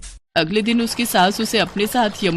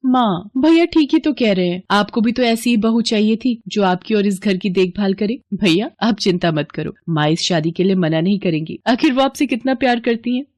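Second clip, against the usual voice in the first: coaxing sister. Acted. Sister backs brother.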